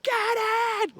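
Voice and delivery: high, loud, slow celebration yell; retold goal celebration. Fan and his son cheering the winning goal, shouting. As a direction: roar it like the winner just went in. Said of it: "me and Carvalho are like".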